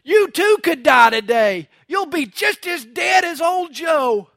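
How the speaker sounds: imitated pulpit shout, stretched at the end; preacher's shout. Preacher terrifying his listeners into a decision, shouting. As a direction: shout it like a country preacher scaring the flock. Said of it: "He shouted".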